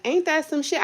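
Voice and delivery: high, incredulous squeal; indignant disbelief. Retold or imitated. Retelling the refund denial, a high incredulous squeal. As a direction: pitch way up in outraged disbelief. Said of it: "But I'm like".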